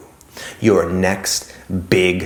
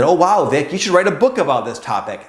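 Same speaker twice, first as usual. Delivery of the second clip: mock excited commenter; 7 semitones higher than usual. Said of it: "someone said".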